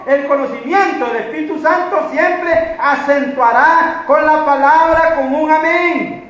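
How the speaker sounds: sustained, projected sermon voice; emphatic pulpit delivery; preaching. Real, not acted. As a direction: preach it with rising conviction.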